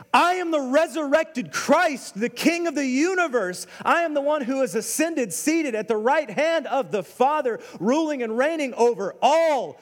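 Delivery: booming, high-pitched proclamation; Jesus. Acted. Risen Christ confronting Paul, booming and emphatic. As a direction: declare it with ringing, emphatic authority. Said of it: "this booming voice coming".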